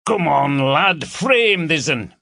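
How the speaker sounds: hammed-up Yorkshire teasing of the new lad; broad Yorkshire dialect. A narrator's reading. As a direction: lay the Yorkshire on thick as a joke. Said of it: "Just a bit of Yorkshire dialect".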